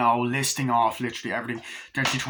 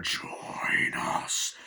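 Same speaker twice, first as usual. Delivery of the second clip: soft, spooky whisper; eerie whisper; 5 dB quieter than usual. Retold or imitated. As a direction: whisper it like an unseen spirit. Eerie unseen voice quoted from film.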